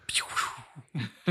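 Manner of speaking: high falling "pew" of flames igniting; imitated fire whoosh. Podcaster imitating the movie's fire igniting, playful whoosh. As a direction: mimic a sound effect of fire catching.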